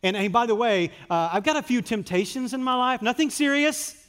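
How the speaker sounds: hammed-up pretend prayer; mock polished prayer. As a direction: act out a fake pious prayer. Mimicking a polished fake prayer.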